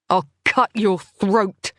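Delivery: slow, deadly serious threat; mean every slow word. Acted. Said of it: "I meant it".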